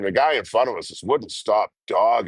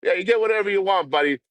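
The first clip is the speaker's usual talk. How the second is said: high taunting put-on voice; taunting the local as he leaves; mocking reply; 10 semitones higher than usual. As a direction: egg him on in a high voice. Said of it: "I'm like".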